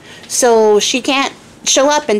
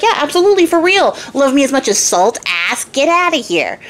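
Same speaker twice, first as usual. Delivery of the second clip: high, scornful send-off; dismissive king; 4 semitones higher than usual. Acted. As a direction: scoff her out the door. King confirms banishment.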